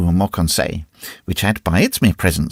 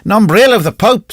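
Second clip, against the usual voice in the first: gruff captain; 11 semitones higher, 6 dB louder than usual. Acted. Captain curses after losing girl.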